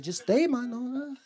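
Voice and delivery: slow, soft laid-back reply; Jesus answering. Retold or imitated. Jesus telling comedian to stay, slow relaxed answer. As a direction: drawl it calmly, unbothered. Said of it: "He said".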